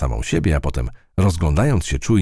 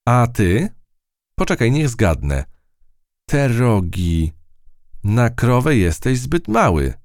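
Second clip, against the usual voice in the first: high, lively mouse voice; a brave mouse guessing playfully; curious mouse; 7 semitones higher than usual. A narrator's reading. Matylda meets the creature.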